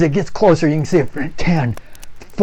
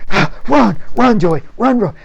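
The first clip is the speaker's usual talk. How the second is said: louder, higher shouted urging; urgent yell; 7 semitones higher, 5 dB louder than usual. Acted. Scoutmaster yelling for Joey to run. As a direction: push him to run faster.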